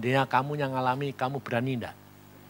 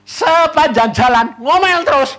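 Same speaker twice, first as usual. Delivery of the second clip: laughing mock; 12 semitones higher, 11 dB louder than usual. Mocking friend's grumbling.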